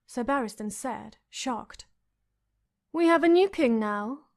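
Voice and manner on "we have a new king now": louder, higher queenly retort; cold reply. A narrator's reading. Queen answers the old knight, louder cold retort. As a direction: cut him down with the words. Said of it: "Cersei Lannister replied".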